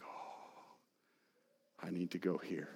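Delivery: whispered response. Pretend. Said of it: "And you're like".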